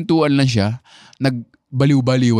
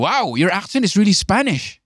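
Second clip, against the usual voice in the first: light mock amazement, pitched up; amazed remark; 6 semitones higher than usual. Jason Leong telling the speaker his accent sounds Spanish, amazed. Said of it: "Sabi niya".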